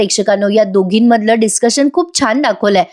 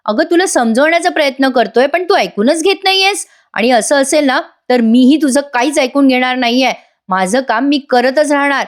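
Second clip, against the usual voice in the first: irritated outburst; 3 semitones higher than usual. Retold or imitated. Husband fed up with wife's suspicion, mildly angry outburst. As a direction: act fed up without really shouting. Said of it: "Sachin आता चिडतो बरं का मोठ्याने".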